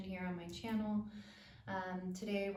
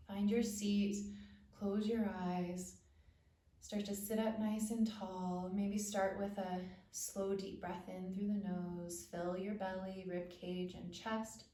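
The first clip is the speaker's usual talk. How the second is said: calm, unhurried instructions with pauses; guided meditation. Acted. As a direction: ease listeners into settling down and breathing.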